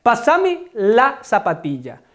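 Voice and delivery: Paraguayan "zapatilla" with a palatal ll; Paraguayan Spanish. Shown as a demonstration. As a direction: Paraguayan usage, "zapatilla" with a distinct ll. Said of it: "diferencia morfológica y sintáctica". (castellano paraguayo, "zapatilla" con ll)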